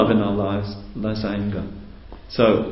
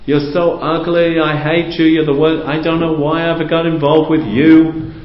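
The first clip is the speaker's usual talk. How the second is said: raised, higher mock yelling at a lover; mock angry shout; 5 semitones higher than usual. Shouting at someone you love, mock angry. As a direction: act out a half-hearted lovers' quarrel shout. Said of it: "you know, like this".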